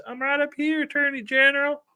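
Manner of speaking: high, sweet put-on answer; mock sweet reply. Becky answering the Attorney General, high and sweet. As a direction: chirp it back sweetly.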